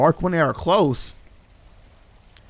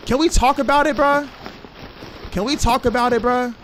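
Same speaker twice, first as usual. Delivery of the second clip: mock pleading; 9 semitones higher than usual. Player begging chasing creatures, high whiny plea. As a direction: beg the monsters in a high whine.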